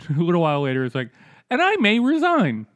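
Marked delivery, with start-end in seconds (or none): 1.5-2.6 mock announcement. Imitating the congressman's announcement.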